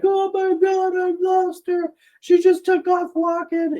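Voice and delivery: hammed-up brother who lost his mom; mock panicked brother. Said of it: "my brother's like".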